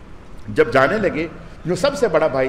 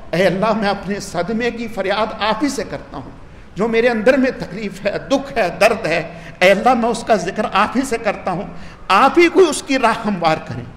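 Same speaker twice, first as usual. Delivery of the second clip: heartfelt prayer; 4 semitones higher than usual. Acted. Jacob's prayer to God.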